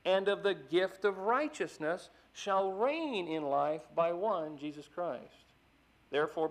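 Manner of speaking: preacher reading Romans aloud with force; scripture reading. Acted. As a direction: proclaim the verses to the congregation.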